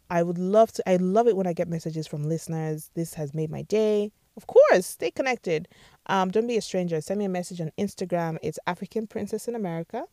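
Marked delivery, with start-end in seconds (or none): 4.4-5.7 excited. Real, not acted. Happy reply to a listener.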